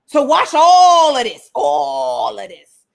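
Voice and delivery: slow, breaking plea to be washed; hammed-up teary Peter begging; mock tearful plea. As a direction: plead with a cracking voice. Peter pleading, voice cracking.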